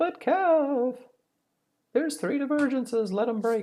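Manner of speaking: little angel voice, very high and soft. Voicing the little angel on your shoulder, in a high-pitched angel voice. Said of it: "in that high pitched voice is like".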